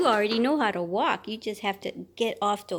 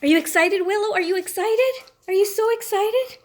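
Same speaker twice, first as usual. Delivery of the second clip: excited; 10 semitones higher, 4 dB louder than usual. Real, not acted. Hyping up the bird.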